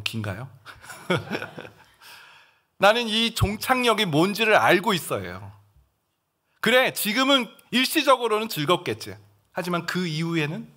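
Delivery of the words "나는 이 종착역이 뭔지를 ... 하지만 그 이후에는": bold declaration. Shown as a demonstration. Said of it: "이런 선포를 하는 거예요".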